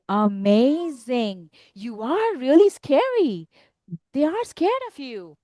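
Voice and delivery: understated stunned monster; stunned Gruffalo. Acted. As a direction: draw it out with a touch of amazement. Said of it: "the Gruffalo was stunned".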